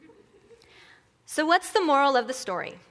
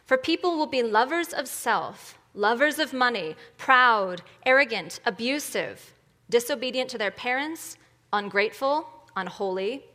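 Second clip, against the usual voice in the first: emphatic public Bible reading; measured, forceful pulpit reading; scripture reading; 4 dB louder than usual. Real, not acted. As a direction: read the list item by item, with weight. Reads scripture to congregation.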